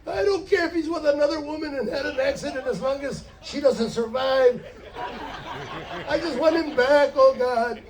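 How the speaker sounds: desperate prayer. Acted. Panicked praying wife acted.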